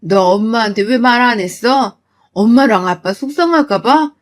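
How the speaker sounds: loud, heated rebuke; angry scolding. Acted. Mother scolding daughter for hiding abuse, furious. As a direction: scold out of protective fury.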